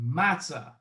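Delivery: word set apart, said slowly; slow dictation. Shown as a demonstration. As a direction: say it slowly for someone writing it down. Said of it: "First time I'm gonna say it slow".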